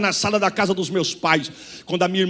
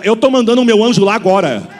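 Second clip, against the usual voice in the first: loud prophetic proclamation, slowed on key lines; loud prophecy; 6 semitones higher, 8 dB louder, slower than usual. Acted. Preacher voicing the sister's prophecy to the church, loud and proclaiming. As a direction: thunder it out as God's word.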